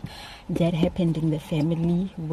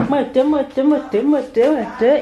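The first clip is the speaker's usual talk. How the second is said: playful coaxing; 6 semitones higher, 3 dB louder than usual. Real, not acted. Coaxing the baby into the car.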